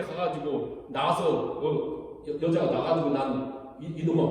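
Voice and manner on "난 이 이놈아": retold cursing. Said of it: "막 그렇게 욕하는 거거든요".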